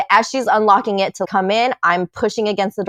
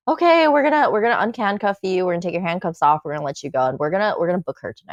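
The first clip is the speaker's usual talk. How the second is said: casual cop; much faster than usual. Retold or imitated. Imitating cop releasing her from handcuffs, breezily casual. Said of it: "he's just so casual".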